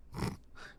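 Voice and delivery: short derisive snort. A narrator's reading. Bounty hunter scoffing at her partner's question, snort. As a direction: snort through the nose. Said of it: "Veliana snorted".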